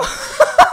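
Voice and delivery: sudden very high-pitched laugh; shrill burst of laughter. Real, not acted. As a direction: squeal with laughter. Laughing at own retold rant.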